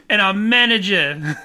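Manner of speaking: badly faked British reading; bad British accent. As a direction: attempt a British accent and fumble it. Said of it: "I can't do a British accent".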